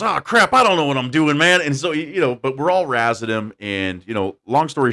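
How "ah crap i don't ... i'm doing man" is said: sheepish rookie. Retold or imitated. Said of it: "so he goes".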